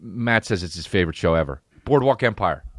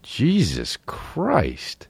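awed crew; 3 semitones higher, much slower than usual. Retold or imitated. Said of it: "they'd be like".

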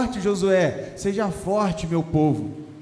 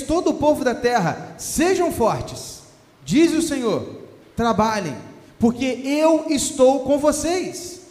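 preaching scripture reading. Acted. Pastor reading Haggai to his congregation, solemn proclaiming. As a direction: proclaim every line like a herald. Reads the prophecy aloud, preaching.

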